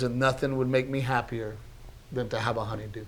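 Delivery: quiet, falling wistful quote; emotional. Real, not acted. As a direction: retell it tenderly, voice dropping away. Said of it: "I'm getting emotional right now thinking".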